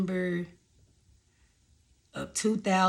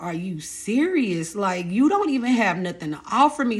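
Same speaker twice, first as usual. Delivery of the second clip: fed-up disbelief; 3 semitones higher, 4 dB louder than usual. Real, not acted. Venting about the baby's father.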